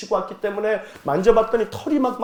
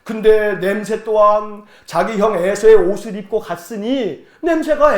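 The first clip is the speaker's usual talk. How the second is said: ordinary talk, nothing marked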